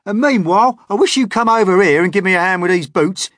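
very high, loud, fast centipede. Acted. Centipede asking James to help with his boots, very high and loud. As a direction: rattle it off bossily.

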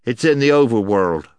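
loud, effortful insistence; short of breath. A narrator's reading. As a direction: push the words out with effort. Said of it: "struggling a little to get his breath".

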